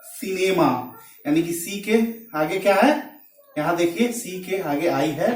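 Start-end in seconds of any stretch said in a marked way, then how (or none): 0.1-0.7 सिनेमा begun with an S sound; soft C as S. Shown as a demonstration. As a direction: say सिनेमा with C as S, not K. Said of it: "सी का उच्चारण स होता है".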